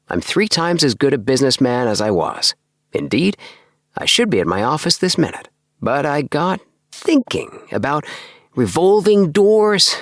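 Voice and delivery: bubbling over about his dream house; lifted voice full of enthusiasm; Appleby's voice. Acted. Appleby describing his sales game.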